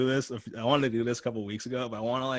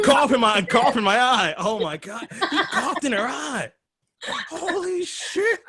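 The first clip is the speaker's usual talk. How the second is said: high shrieking put-on voice, much higher and louder; high squealing laughing outrage; mock outraged actress; 12 semitones higher, 7 dB louder than usual. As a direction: shriek it like a scandalized starlet. S0 acting disgusted porn actress.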